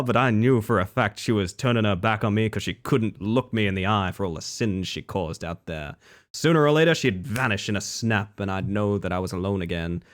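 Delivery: hardboiled detective narration; lightly voiced noir gumshoe. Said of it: "the noir detective bit".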